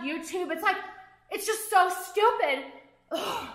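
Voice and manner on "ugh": exasperated groan. Real, not acted. Venting to viewers about stupid treatment, exasperated groan. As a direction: let out a fed-up ugh.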